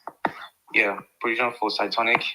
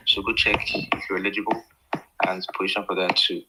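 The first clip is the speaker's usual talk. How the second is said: winded after a workout; breathless, between gym sets; out of breath. Real, not acted. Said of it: "sorry if I sound out of breath".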